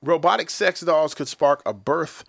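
slow, deliberate headline reading; news read. Acted. Reading a sex-robot headline to cohosts, slow news voice. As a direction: read it like an anchor, slowly.

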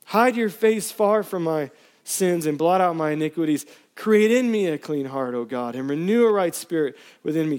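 pleading psalm read with rising intensity; impassioned scripture reading. Acted. Pastor reading a psalm to church, pleading. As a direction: preach the plea as your own. Preacher reads the psalm aloud.

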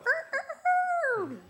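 loud, high imitation rooster crow. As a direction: crow like a rooster, last note held long. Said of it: "the rooster would go".

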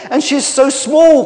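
high, loud protest; crying out. A narrator's reading. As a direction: cry it out in indignant disbelief. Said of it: "cried Minnie".

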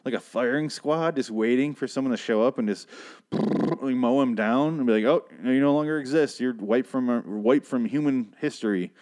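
put-on high sing-song talk as if to a toddler; mock condescending cooing. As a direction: coo at it like a cute relic. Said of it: "I was like".

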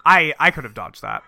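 deadpan quote in an everyday pitch; matter-of-fact. Retold or imitated. Husband just hit by his wife, matter-of-fact. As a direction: state it as plain fact. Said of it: "He said matter-of-factly after she hit him".

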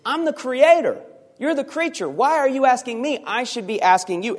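high, emphatic voice of the creator; God asserting. Acted. God tells Job who is creator, high and emphatic. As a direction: put the creature in its place. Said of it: "essentially saying is".

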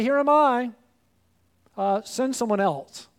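eager start that drops into a shrug at "send someone else"; mock half-hearted volunteer; reluctant volunteer. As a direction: offer yourself, then back out. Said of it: "and we say".

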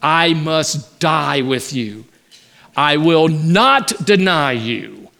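slow, deliberate insistence; emphatic. Retold or imitated. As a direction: lean hard on every word, slowly. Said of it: "he said emphatically".

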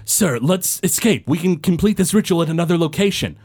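lightly voiced panicked cultist; cultist pleading. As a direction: hurry the boss away. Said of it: "A cultist off to the side yells".

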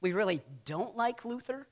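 mock decree. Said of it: "they say".

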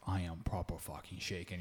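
low, slow, hushed, scared; 怯えた小声の物真似; mimicking a scared man, quiet and slow. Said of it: "And he's like".

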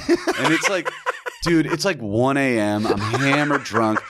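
laughing while talking. Real, not acted. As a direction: talk through the laughs. Laughing through the story.

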